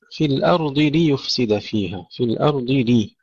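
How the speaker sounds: ليفسد opening on a clear li, then yu; clear kasra. Shown as a demonstration. Teacher modelling for students, clear li in ليفسد. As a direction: give ليفسد a distinct i after ل. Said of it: "كسر اللام".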